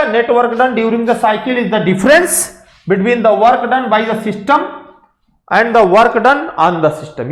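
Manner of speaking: spells the definition out word by word, very slow; slow dictation. Shown as a demonstration. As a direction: dictate it slowly so students can write. (धीरे-धीरे लिखवाते हुए)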